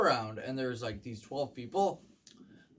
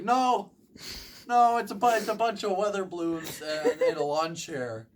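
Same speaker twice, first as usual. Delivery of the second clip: loud retold shout; 5 semitones higher, 6 dB louder than usual. Balloon man shouting for help.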